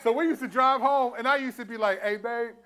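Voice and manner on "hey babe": laughing complaint. Retold or imitated. Retold complaint to wife in car.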